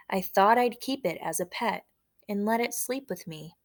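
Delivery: measured, lilting poem read-aloud; poem recited with a pause after each line. Acted.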